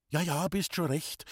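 hastig und höher hervorgestoßen; stoß es nervös heraus. A narrator's reading. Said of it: "stieß Loni hervor". (Loni stößt es vor dem Gast erschrocken hervor)

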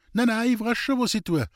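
an anxious maid insisting she knows what she's doing; flustered maid. A narrator's reading. The maid defends her smoke ritual. (aufgeregte Magd, höher und lauter)

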